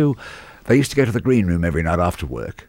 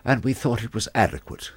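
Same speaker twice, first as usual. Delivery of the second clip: lofty, condescending tone; mock the snooty producer; lightly voiced haughty producer; talking down his nose; 4 semitones higher than usual. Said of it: "Still talking down his nose".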